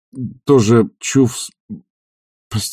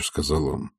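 usual speaking voice

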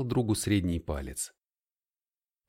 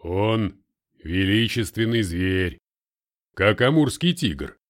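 put-on slow, awed and loud, a touch of accent; awed Russian; 5 dB louder, slower than usual. A narrator's reading. Russian admires the cat in awe, slow. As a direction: marvel at the cat like a big beast. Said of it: "с благоговением проговорил русский".

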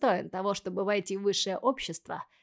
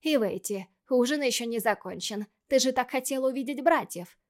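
kindergarten teacher voice; 4 semitones higher, 4 dB louder than usual. Acted. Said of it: "Пыталась достучаться до дочери Майя".

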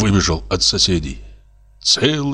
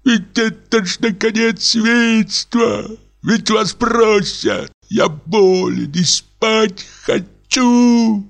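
indignant shout; 13 semitones higher, slower than usual. Acted. Sick lodger yelling through the wall at revellers, indignant. Lodger scolds noisy neighbours.

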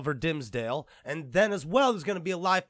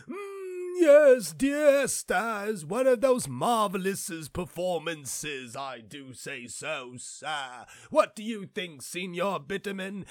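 posh snob voice; 2 semitones higher, slower than usual. Retold or imitated. Mocking refined elite gamers, hammed-up snob voice. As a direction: sniff like a rich theatre snob. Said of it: "a bunch of people who go".

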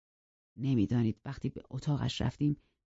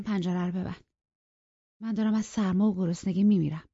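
peevish; 3 semitones higher than usual. A narrator's reading. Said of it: "با اوقات تلخی به من گفت".

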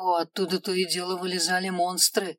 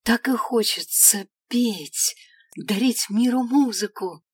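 christmas elf; 3 semitones higher, 5 dB louder than usual. Acted. Elf keeps gushing.

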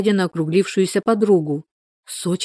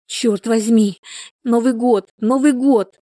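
shrieking; 5 semitones higher, slower than usual. A narrator's reading. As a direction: squeal out in panic as the contractions start. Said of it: "заверещала Мила". (пронзительный визг)

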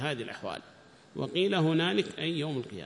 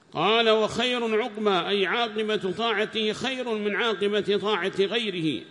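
raised, measured text-reading voice; reading aloud; 5 semitones higher, 4 dB louder, slower than usual. Acted. Student reads the tafsir text to the teacher in a raised reading voice. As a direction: read the commentary out to the class.

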